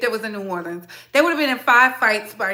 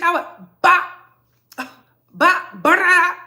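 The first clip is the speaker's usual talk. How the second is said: playful threat, high and loud; comic mock fighting words; mock bopping; 6 semitones higher, 6 dB louder, slower than usual. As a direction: punch each bop out high and loud like a jokey threat. Mock threat to hit someone.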